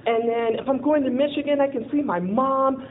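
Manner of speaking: high, bubbling thrill at the news; giddy retold excitement; excited. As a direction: gush about the jail adventure. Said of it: "I'm all excited".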